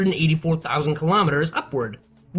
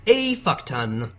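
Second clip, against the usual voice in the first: slow, dry punchline; dry comic understatement; deadpan; 5 semitones lower, much slower than usual. Acted. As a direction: drop it flat and slow. Deadpan punchline after long pause.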